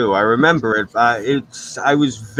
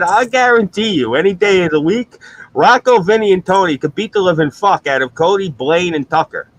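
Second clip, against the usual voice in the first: George Carlin rant; 5 semitones higher than usual. Retold or imitated. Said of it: "I'm quoting George Carlin".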